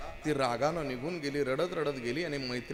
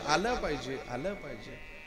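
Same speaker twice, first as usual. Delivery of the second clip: echo. Shown as a demonstration. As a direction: bounce आलं पाहिजे back and fade it out. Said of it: "ती फक्त शेवटचा शब्द उच्चारायची". (आलं पाहिजे चा विरत जाणारा प्रतिध्वनी)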